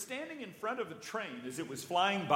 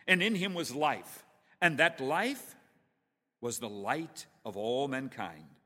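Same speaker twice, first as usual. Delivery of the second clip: slow, measured, louder reading; scripture reading; 3 dB louder than usual. Acted. Preacher leads congregation in scripture reading, solemn and measured. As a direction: read it with solemn weight.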